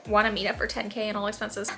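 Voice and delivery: amused disbelief while reading; laughing. Real, not acted. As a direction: read through giggles. Reading a creepy DM aloud.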